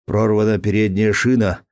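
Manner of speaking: a lightly voiced cry of a driver whose tyre just burst; shouted alarm. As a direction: call it out in alarm. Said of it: "крикнул Рассеньи".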